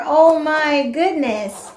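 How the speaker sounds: excited. Shown as a demonstration. Excited demo for child.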